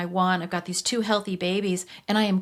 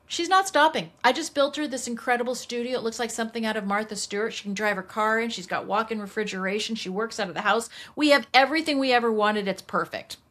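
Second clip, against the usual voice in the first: husband's firm refusal; 2 semitones higher than usual. Retold or imitated. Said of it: "the guy just looks at me and goes".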